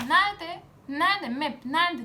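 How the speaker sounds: shouting nerede in real anger; angry shout. Real, not acted. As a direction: demand it loudly, fed up. Angry rant about exam questions. (öfkeyle bağırarak)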